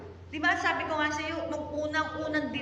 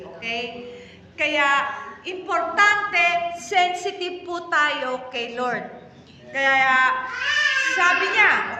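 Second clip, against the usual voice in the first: preaching at full force; 3 semitones higher, 7 dB louder than usual. Acted. Pastor reads Paul's words to the congregation, preaching at full force. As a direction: hammer the verse home to the church.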